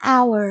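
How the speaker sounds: "Hour" said with no H sound; silent H. Shown as a demonstration. Teacher showing pupils the word, "Hour" with silent H. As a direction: say "Hour" starting straight on the vowel, like "our". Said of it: "chữ hờ chúng ta không đọc".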